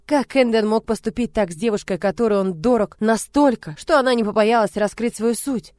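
plain reading voice

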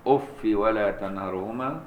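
أف with kasra, no tanween, slow; other readers' reading. Shown as a demonstration. Teacher demonstrates the remaining readers' أف, slowly. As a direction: say أف ending in a short i. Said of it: "باقي القراء".

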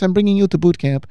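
high, sweetly put-on voice; angelic voice. Cleaning lady inviting her client, imitated angelic voice. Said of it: "she said it so nicely in this sort of angelic voice".

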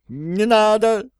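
high, slow, desperate wail; frightened wail. A narrator's reading. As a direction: wail in panic at the knife. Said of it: "завопил домовой". (вопит в испуге, высоко и протяжно)

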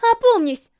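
loud, high plea; urgent shout. A narrator's reading. Racer calling to her reckless rival, urgent. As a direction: shout to bring someone to their senses.

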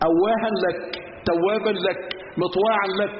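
each "لك" closes its phrase, pause after it; group "أواها لك", "توابا لك", "مطواعا لك" as separate units; corrected phrasing. Shown as a demonstration. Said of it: "الحديث بيقول". (الوقف بعد كل "لك": "أواها لك، توابا لك")

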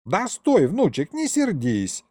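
put-on high, coaxing old man; placating grandpa. Grandpa calling back his offended grandson, high and placating. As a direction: coax the sulking grandson in a high voice.

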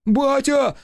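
high, panicked cry; the son yells at his father under the blows; yelling. Acted. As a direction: wail for your father to stop. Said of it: "завопил молодчик".

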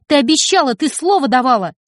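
angry accusation. Acted. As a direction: throw the broken promise back. Heated quarrel with mother.

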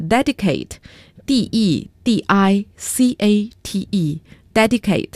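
letters spelled out one by one, slowly; slow spelling. Acted.

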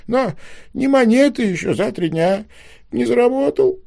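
высокий голос старичка, громче, жалобно; старичок сквозь слёзы рассказывает о беде; плаксивый старичок. A narrator's reading. Old man long tearful story. (мэр жалуется детям на жизнь, плаксиво)

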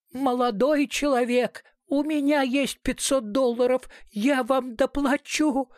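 put-on a frightened old lady offering money, voice pitched high; old woman's voice. A narrator's reading. Old hostage pleads from the parapet. (высокий умоляющий голос старушки)

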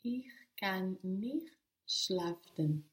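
"schlafen" in a slow whisper; careful whispered learner's try. Real, not acted. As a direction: take it slow and under the breath. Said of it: "Even slower".

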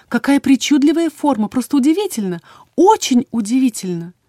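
a touch of dreamy fascination; mildly marvelling. A narrator's reading. Healer marvels over threads of fate, lightly lilting wonder.

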